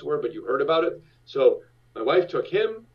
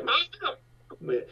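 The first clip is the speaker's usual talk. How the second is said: put-on high-pitched child's cry of Mom; a small boy wailing for his mother; calling out. Dragged son crying out for his mom, high child's cry.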